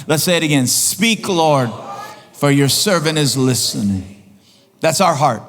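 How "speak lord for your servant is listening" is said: slower, heartfelt prayer, each word meant; said like you mean it. Shown as a demonstration. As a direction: pray it as if you really want it. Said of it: "say it like you mean it".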